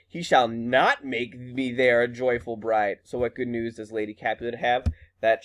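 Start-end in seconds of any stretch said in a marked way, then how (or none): 0.1-3.0 slow, firm retold refusal, leaning on not; mildly defiant, drawn-out reading. Teacher reading Juliet refusing the marriage, mildly defiant. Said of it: "like, is defiant".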